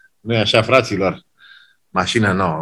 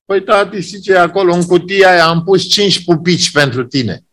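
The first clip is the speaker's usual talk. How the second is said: put-on child voice; 6 semitones higher than usual. Child explains gift.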